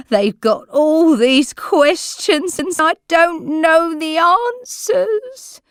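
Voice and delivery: put-on tearful old woman begging the carer; moaning. A narrator's reading. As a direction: plead through tears, frightened. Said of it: "burst into tears".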